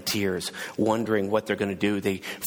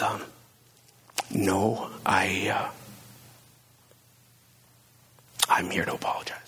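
soft apology. A narrator's reading. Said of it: "there was a softness about Zacchaeus".

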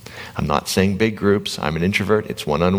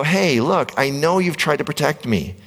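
higher, tender thanks to a protector; with love; 10 semitones higher than usual. Pretend. Thanking his amygdala for the pandemic, tender and higher. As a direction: reassure it like a friend who got you through. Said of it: "if we treat it with love, we go".

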